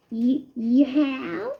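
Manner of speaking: slow, stuttered worried question; guilty mouse caught off guard; halting nervous voice; stuttering nervously. A narrator's reading. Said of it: "stuttered Christopher".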